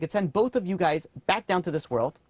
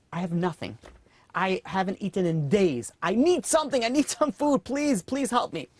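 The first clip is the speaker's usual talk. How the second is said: desperate begging; 3 semitones higher than usual. Acted. Starving beggar begs the rich man for food, high and desperate. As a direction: beg as if you haven't eaten in days.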